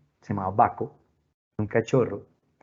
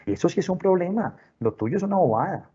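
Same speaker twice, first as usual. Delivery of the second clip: high, emphatic brush-off; acted scoffing, pitch pushed up; dismissive parent; 7 semitones higher than usual. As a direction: play a parent belittling a child's worry. Parent voiced dismissing child's problem.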